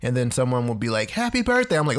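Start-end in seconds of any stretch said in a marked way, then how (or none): 1.1-1.8 mock cheer. Quoting a cheerful well-wisher.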